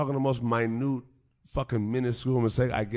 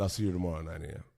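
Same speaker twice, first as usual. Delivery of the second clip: curt dismissal; 8 semitones lower, 9 dB quieter, much faster than usual. Retold or imitated. Boss curtly dismisses him.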